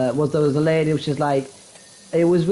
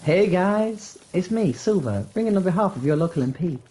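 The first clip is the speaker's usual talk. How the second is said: mock casual phone greeting. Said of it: "The phone voice didn't go correctly".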